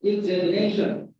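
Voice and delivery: "Examination" with a fronted "e"-like second vowel; correct pronunciation. Shown as a demonstration. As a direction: say "Examination" as ig-zem-i-NAY-shun. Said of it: "but examination".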